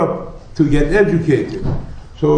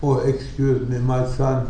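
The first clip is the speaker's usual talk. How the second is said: calm. Retold or imitated. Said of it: "very calmly said".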